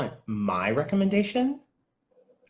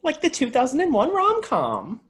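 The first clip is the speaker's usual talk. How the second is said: much higher, eager chime-in; excited movie nerd; 13 semitones higher, 5 dB louder than usual. Acted. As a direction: jump in thrilled to name the film. Film nerd gushing about movie.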